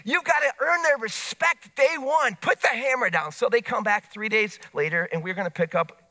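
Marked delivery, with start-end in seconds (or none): 0.0-3.3 put-on brash young peers. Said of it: "they say to him".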